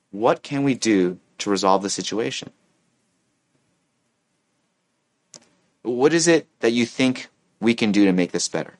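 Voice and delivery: composed, sincere asking; constructive questioning. Acted. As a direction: invite their answer without heat. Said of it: "ask a good question that's pos-, positive and constructive".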